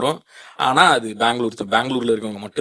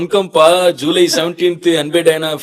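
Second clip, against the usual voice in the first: loud, high, drawn-out Bangalore Tamil; Bangalore Tamil slang; 6 semitones higher, 9 dB louder than usual. Shown as a demonstration. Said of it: "என்ன பேசி காட்டுன்னு சொல்ல போறாரு". (உரக்க, இழுத்துப் பேசுற Bangalore Tamil slang)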